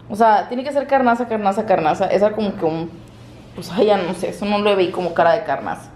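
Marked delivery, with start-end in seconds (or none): none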